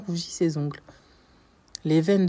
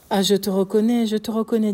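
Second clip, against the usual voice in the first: louder, higher burst of recognition; agitated cry of recognition; 4 semitones higher, 6 dB louder than usual. A narrator's reading. Villefort recognizes his old enemy, agitated cry. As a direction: cry it out as realization strikes.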